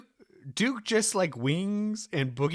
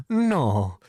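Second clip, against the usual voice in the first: Spanish maid voice; 3 semitones lower, slower than usual. Retold or imitated. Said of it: "Spanish woman from Family Guy".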